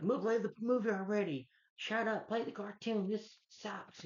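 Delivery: high nasal-free mocking heckler impression; rude heckler. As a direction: whine at the screen like an obnoxious jerk. Rude moviegoer heckles the screen.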